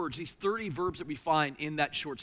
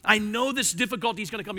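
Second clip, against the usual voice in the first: voicing Habakkuk; 6 semitones higher, 8 dB louder than usual. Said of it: "He, he says".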